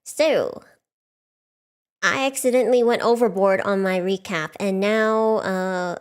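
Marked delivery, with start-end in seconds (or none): none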